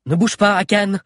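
put-on a scared girl trying to sound firm; trembling warning. A narrator's reading. Guard warning the giant, trembling. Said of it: "fit Diana en tremblant".

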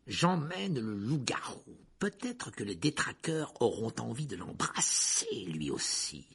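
slow, lightly voiced mock-sweet taunt; gloating villain. Teacher drags the werewolf off, gloating. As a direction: stretch the threat out mockingly.

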